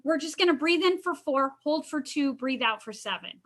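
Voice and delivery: paced like guiding a breath; guided breathing count. Shown as a demonstration. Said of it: "so I'll count".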